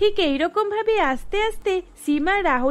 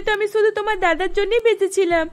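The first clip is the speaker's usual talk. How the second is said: crying; 4 semitones higher, 3 dB louder than usual. Acted. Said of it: "অনেক জোরে জোরে কান্না করতে করতে".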